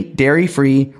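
ordinary delivery

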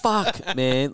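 high, exclaiming in dismay; mock dismay. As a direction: yelp it out as if kicking yourself. Regret over missing Graceland.

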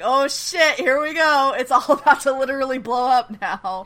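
loud, high burst of excitement; excited alarm. Acted. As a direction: brace for the blow-up, loud and high. Reacting to scene about to explode.

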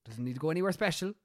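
whispered product pitch; hushed sales pitch. Pretend. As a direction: confide the instructions in a whisper.

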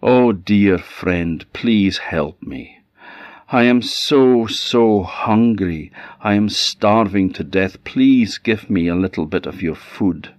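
a hungry raven begging for food; pleading raven. Acted. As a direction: plead like a starving bird. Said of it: "the raven looked at him and said".

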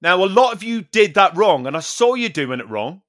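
imitating the instructor scolding; mock scolding instructor. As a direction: scold the class like a petty teacher. Instructor scolding class, retold.

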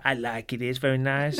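lightly put-on foreign accent; Borat. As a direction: mimic a foreigner's simple, halting English. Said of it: "he talked like Borat".

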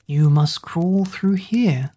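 slow coaxing whisper; sly whisper. Acted. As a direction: lure the child along in a slow whisper. Sly snake luring the baby.

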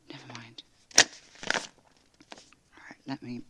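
resigned whisper. Acted. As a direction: drop to a whisper, giving up. Giving up mid-argument.

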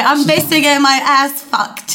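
polite British. Acted. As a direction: put on genteel British, amused. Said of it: "på artigt brittiska, lite bättre".

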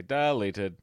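gravel-free Strong Bad read. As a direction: clip the word like Strong Bad. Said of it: "it's from Strong Bad reading emails".

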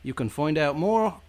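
put-on British accent outro read. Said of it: "That was genuinely really good".

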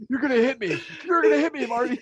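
imitating an outraged friend; mad. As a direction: challenge them in disbelief, half laughing by the end. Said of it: "he got all mad about it".

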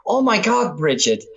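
high, gushing mock valley girl; valley girl gossip. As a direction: gush like a gossiping girl about a crush. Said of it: "It's like".

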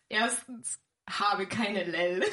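slow, giggling through the words; barely holding back laughter; cracking up mid-line. Real, not acted. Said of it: "warum du da jetzt so lachst".

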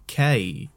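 "K" said slowly as Japanese Kei, with a gliding inflection at the end; "K" drawn out with a lifted ending on the I; Japanese pronunciation of Kei. Shown as a demonstration. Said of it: "got a weird sort of inflection at the end".

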